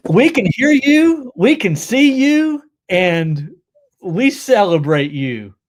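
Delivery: loud, high emcee's welcome; hyped-up welcome. Pretend. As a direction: proclaim it to a whole crowd. Hypes up friend's arrival.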